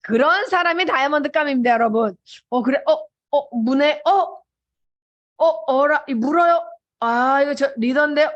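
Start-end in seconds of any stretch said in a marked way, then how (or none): 2.5-8.3 imitated rising thrill, broken by little gasps of discovery; growing excitement. Recruiter realising this person is a leader, acted mounting excitement. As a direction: act out spotting a catch. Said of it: "이러면서 이제 막 흥분을 하면서".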